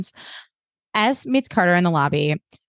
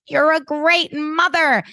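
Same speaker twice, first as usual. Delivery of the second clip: high, slow, hammed-up exclamation; Cyrus; 9 semitones higher, slower than usual. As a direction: draw out the praise in a high voice. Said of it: "And Cyrus is like".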